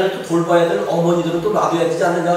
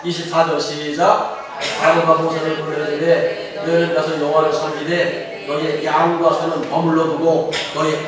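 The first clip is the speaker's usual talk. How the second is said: measured, even scripture reading. A narrator's reading. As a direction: read the verse out steadily, drawing out the endings. (차분히 성경을 봉독하듯)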